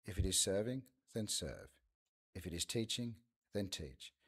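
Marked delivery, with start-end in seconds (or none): none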